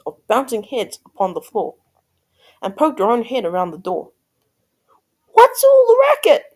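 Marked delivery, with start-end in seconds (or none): 5.3-6.6 loud, high-pitched Cindy voice; high cry. A narrator's reading. Cindy poking her head in from the kitchen, crying high. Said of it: "Cindy cried".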